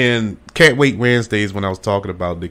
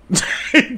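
burst of laughter; 12 semitones higher than usual. Real, not acted. Laughing about kidnapping plot.

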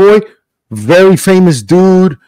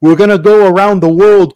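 eager mom; 5 semitones higher than usual. Retold or imitated. Imitates the mom's eager offer.

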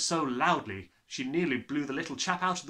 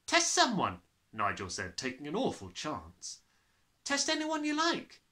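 put-on boy's voice; 4 semitones higher than usual. Nigel daring.

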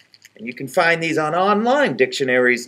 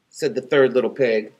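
usual speaking voice

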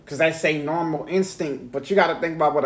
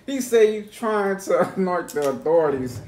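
still laughing; 3 semitones higher than usual. Real, not acted. Repeats the line, still laughing.

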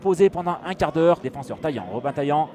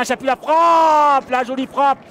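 excited sports commentary; 3 semitones higher, 5 dB louder, slower than usual. Real, not acted. Strike call.

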